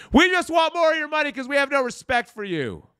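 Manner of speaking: squeaky high mocking voice of greedy hosts; mock podcaster voice. Mocking the podcasters for their fans, squeaky high. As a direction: pitch way up to mock them.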